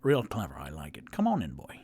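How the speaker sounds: unvoiced low hissed aside; low whisper. Sheen whispering to Rock at the door. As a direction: whisper it conspiratorially. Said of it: "Sheen goes".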